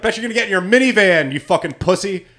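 retold taunt. Buddy taunting leaving dads.

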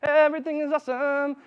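high, mock-chirpy cheer; hammed-up fake happiness. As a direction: sing it out fake-happy. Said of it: "you sound so happy".

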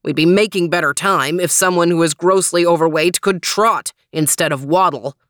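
mildly indignant exclamation; exclaiming. Acted. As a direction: fire back a jibe with some punch. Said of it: "exclaimed Trooper".

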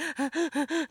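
a quick mock sob-gasp, as if unable to breathe; retelling the crying with one hitched gasp; imitated gasping sob. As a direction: show how the panicked crying sounded. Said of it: "that's literally how I was crying".

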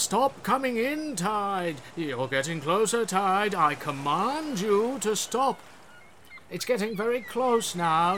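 lightly voiced king commanding the tide; mock regal orders to the sea; King Canute. A king scolds the tide, hammed-up commands. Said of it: "History brought to life".

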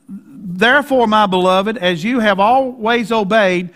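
plain measured reading of the verse; scripture reading. Shown as a demonstration. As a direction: read the verse out to the church. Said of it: "I'm gonna read it in English".

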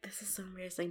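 very soft, mumbled under breath; mortified mumble. Retold or imitated. Muttering to herself driving away, soft and mortified. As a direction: say it to yourself, ashamed.

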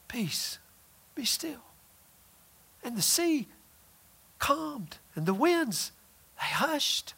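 very soft, slow hush; hushed command. Acted. Preacher telling how Jesus calmed the storm, hushed. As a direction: speak it like stilling the sea.

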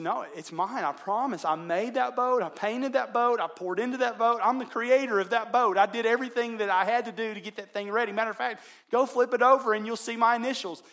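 high, loud, impassioned protest; insistent boy. Retold or imitated. Boy insists to shop owner.

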